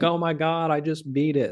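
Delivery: high-pitched imitation of a celebrating fighter; mock freak-out. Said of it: "like, freaking out".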